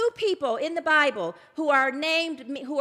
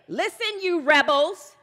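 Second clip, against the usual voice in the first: loud, higher indignant rebuke; indignant Moses; 4 semitones higher, 9 dB louder, slower than usual. Retold or imitated. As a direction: snap at the rebels with barely held anger. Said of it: "he's all indignant now".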